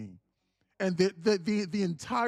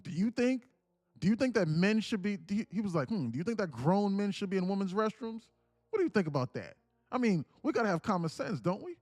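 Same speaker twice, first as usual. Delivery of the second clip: raised, louder, hammed-up impression of a president pressing a question; mock Trump voice; 5 semitones higher, 3 dB louder than usual. Host mocking Trump grilling a DoorDash worker, hammed-up impression. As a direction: push her with a grinning showman's voice. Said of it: "he said, he said".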